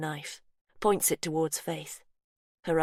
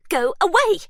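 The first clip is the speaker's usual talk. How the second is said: loud, high yell; 14 semitones higher, 12 dB louder than usual. Acted. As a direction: drive the intruder off. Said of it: "Faith yells".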